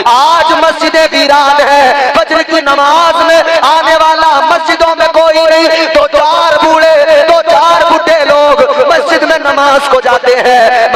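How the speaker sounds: high, ringing sermon lament; impassioned preaching. Acted. Preacher lamenting empty mosques at dawn prayer, high and impassioned.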